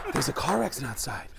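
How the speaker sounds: a hint of winded distress; lightly breathy stressed-out plea; out of breath Mark Wahlberg. Shown as a demonstration. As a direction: few words at a time, stressed. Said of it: "This is the whole Mark Wahlberg impression".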